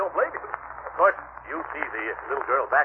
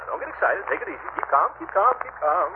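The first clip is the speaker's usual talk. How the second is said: flustered; 5 semitones higher than usual. Acted. Flustered man calming himself.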